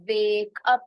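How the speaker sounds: teacher sounding out wake up; pronunciation demo. Shown as a demonstration. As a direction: wake up said clearly as "wake up", not "वाकअप". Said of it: "pronunciation पे ध्यान देना है".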